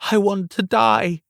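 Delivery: high anguished yell. Acted. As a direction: cry it out in despair. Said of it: "as she yelled".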